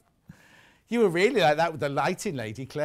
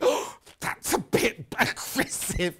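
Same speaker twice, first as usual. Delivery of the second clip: mock aside; 3 semitones higher, slower than usual. Imagined thought about a grumpy friend.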